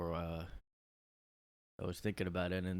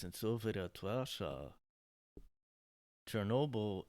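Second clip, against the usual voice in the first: slow, rounded mock Russian accent; slower than usual. Comedian setting up a Soviet joke, mock Russian accent. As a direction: stretch it in a put-on Russian accent. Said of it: "How do you do a Russian accent?".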